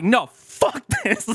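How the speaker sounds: high, slow, laughing mock outburst; imitating a friend's angry blow-up; retold outburst. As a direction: blurt it out half laughing. Friend angry after hit nose.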